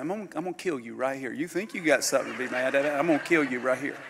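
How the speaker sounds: fast, half-laughing mock threat; fighting shakes. Preacher retelling his angry flash at the man, hurried. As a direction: rattle it off like a brief flash of temper. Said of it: "I got the fighting shakes".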